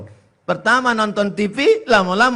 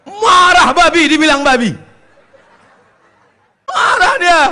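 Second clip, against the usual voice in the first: louder, higher, laughing; laughing outburst; 8 semitones higher, 6 dB louder than usual. Acted. Preacher telling the pig fight, laughing loudly. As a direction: burst out through laughter. Comic animal quarrel, laughing.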